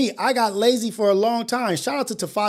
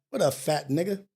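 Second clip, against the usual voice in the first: mock greeting; 4 semitones lower, 6 dB quieter than usual. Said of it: "I walk in there".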